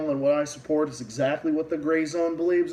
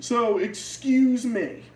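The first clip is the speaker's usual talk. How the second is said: sarcastic apology; 7 semitones higher, much slower than usual. Real, not acted.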